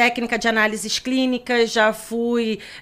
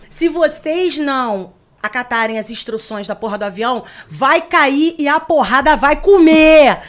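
pilot over the radio; 3 semitones higher, 8 dB louder than usual. Pretend. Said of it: "Eu ia lá".

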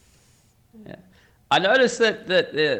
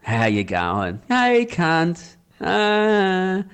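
cheeky greeting among close mates; laid-back Aussie pub hello, pitched up; matey banter; 6 semitones higher, slower than usual. Acted. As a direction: rib your best mate affectionately. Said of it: "if you're with your really good friends".

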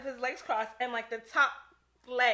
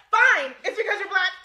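laughing mock teacher; 6 semitones higher, 10 dB louder than usual. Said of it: "the teacher was like".

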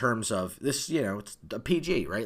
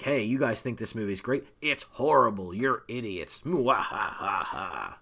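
mad scientist. Retold or imitated.

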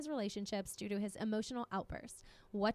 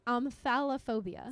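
slow, careful pronunciation; 4 dB louder, slower than usual. Shown as a demonstration. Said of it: "repeat slowly".

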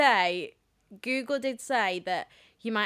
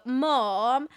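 higher-pitched imitation of a pleading kid; pleading child; 3 semitones higher than usual. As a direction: beg mum like a child on holiday. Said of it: "And then you go".

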